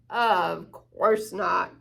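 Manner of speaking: lightly voiced boastful bear; big bear voice. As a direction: drawl it out like a big proud bear.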